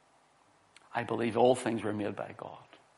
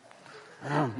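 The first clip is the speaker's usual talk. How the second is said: staged throat clear for attention; pointed cough; 3 semitones higher than usual. Retold or imitated. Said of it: "Coughed a few times".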